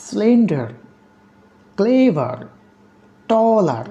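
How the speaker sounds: Slender, ক্লেভার, টলার each high and long at the start, then falling; stress on first syllables. Shown as a demonstration. Teacher listing adjective examples, first syllables of Slender, ক্লেভার, টলার stressed. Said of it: "stress on the first syllable".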